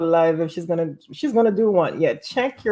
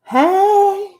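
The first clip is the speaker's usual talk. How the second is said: imitating Coco; 14 semitones higher, 7 dB louder than usual. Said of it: "And she said".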